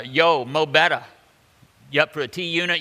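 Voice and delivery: loud, high street-slang hail; mock slangy greeting. Preacher mocking God speaking too casually, loud slangy greeting. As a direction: bark it out like a buddy hailing a friend. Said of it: "a colloquial way".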